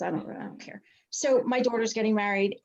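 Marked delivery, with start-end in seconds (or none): 0.0-0.8 breaking into a whisper, fighting tears; choked-up whisper. Real, not acted. Fellow coach on Zoom, overcome with emotion, whispering. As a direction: let the words fall away to an unvoiced hush as emotion rises. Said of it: "I'm gonna get emotional".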